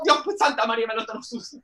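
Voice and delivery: lightly voiced shocked old lady; imitating grandma. Grandma recoils from naked grandson, dismayed. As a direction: mutter prayers in dismay.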